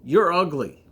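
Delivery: loud, squawky parrot announcing it to the crowd. Acted. Parrot loudly insulting the woman in front of everyone, loud. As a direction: belt it out like a parrot calling across the square. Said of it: "says in a loud voice".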